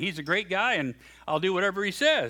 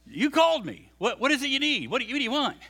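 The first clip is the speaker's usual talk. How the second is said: put-on eager boy; 7 semitones higher, 4 dB louder, faster than usual. Eager boy runs to priest.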